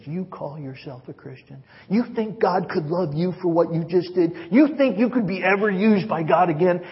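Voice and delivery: lightly voiced Satan jabbing a finger; mock accuser taunting the sinner; accusing Satan.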